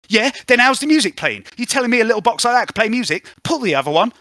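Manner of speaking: put-on high, loud cockney girl snapping at the radio; squeaky street urchin, loud and rude; Spring's voice. Spring griping at the truck radio, high and loud.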